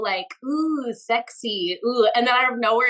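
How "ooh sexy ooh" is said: slow, sultry crooning tease; jazzy and sexy. Shown as a demonstration. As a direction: drag it out like a lazy jazz lick. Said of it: "like, jazzy, cool".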